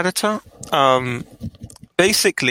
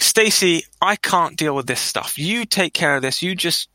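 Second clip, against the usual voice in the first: acted fed-up handover; flustered delegating; 2 semitones higher than usual. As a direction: re-enact offloading chores onto someone. Acts out handing work to Stacy.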